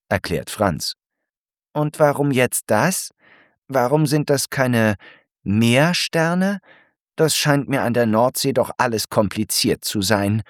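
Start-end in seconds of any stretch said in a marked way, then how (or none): 1.7-10.4 higher, puzzled snail voice; Alberta puzzled. Acted. Alberta puzzles over the word Seesterne, higher puzzled voice. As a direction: question it all, a bit confused. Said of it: "bemerkt Alberta".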